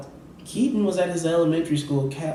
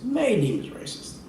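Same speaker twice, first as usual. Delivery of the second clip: sarcastic repeat; 8 semitones higher than usual. Shown as a demonstration. Comedian mocking the owners' claim, sarcastic high echo. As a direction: throw the words back in disbelief.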